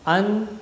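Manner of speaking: understand split as un, der, stand with pauses; syllable by syllable. Shown as a demonstration. Teacher shows the three syllables, understand broken into un, der, stand. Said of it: "These are the three syllables".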